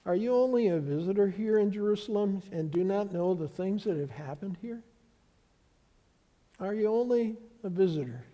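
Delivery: softly voiced disciple, quiet disbelief; mildly ask, half amazed; a touch of incredulous. Disciple asking the stranger, quietly incredulous. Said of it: "then one of them says".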